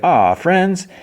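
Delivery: high, drawn-out fond coo; touched aww. Retold or imitated. She reads his written offer of friendship, touched aww.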